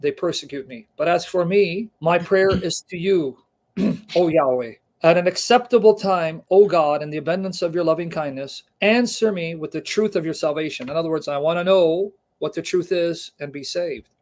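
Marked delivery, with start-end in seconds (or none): 0.0-10.9 fervent Bible reading; emphatic scripture reading. Acted. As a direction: proclaim the psalm like a prayer of distress. Reads psalm aloud.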